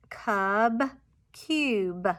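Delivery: "cub" and "cube" each ending on a released b; emphasized final sound. Shown as a demonstration. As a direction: punch out the last b in "cub" and "cube". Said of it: "emphasize the final".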